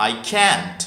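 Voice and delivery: "can't" said as one syllable; short form "can't". Shown as a demonstration. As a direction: contract cannot into a single "can't". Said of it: "ওটা হয়ে যাবে".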